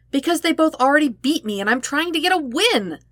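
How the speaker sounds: high, eager whine; whiny Sokka. Acted. Sokka whines to Zuko about losing to the girls, high and eager. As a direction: plead like you just need one win.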